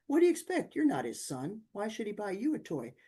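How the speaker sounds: sharp high scolding; impatient mother. Retold or imitated. Mother scolding her son over the toy, sharp and high. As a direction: brush off the child's complaint. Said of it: "you know, the mother".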